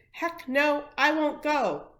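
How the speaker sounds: loud, high protest chant; protester's defiant shout. A narrator's reading. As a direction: yell it defiantly at the bulldozers. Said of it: "she shouted".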